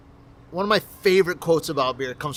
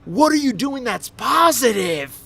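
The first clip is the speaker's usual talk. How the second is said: higher, slow, earnest plea; pleading boyfriend; 8 semitones higher, 5 dB louder, slower than usual. Retold or imitated. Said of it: "and he's like".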